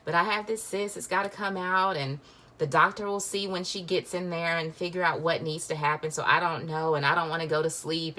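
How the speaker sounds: mock tearful ramble, starting high and fast; imitated sobbing. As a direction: retell it as a run-on through pretend sobs. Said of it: "through the sobbing".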